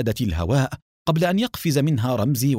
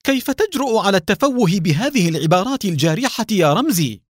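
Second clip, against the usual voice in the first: much higher, louder exasperated scolding; indignant outburst; 9 semitones higher, 4 dB louder than usual. A narrator's reading. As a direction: scold Ramzi, offended and fed up. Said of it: "وصاحت سلوى بضيق". (توبيخ بضيق وصوت مرتفع)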